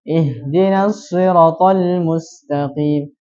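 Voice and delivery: "siratal" dengan ra pendek, lambat; mad ra hilang. Shown as a demonstration. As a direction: contoh salah tanpa panjang di ra. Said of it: "Itu termasuk kesalahan jeli". (bacaan salah ra pendek)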